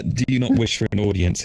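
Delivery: clearer repeat of the creature line; eerie creature voice. Shown as a demonstration. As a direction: say it again so the party understands. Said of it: "I couldn't even understand that one".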